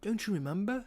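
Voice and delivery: British villain prodding a memory; acted British character voice; William Afton. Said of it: "do my best William Afton impression".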